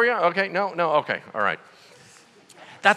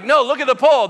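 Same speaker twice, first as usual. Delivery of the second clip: louder, higher insistent order; firm insistence; 7 semitones higher, 7 dB louder, faster than usual. Retold or imitated. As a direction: press the point hard. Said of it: "so he's like".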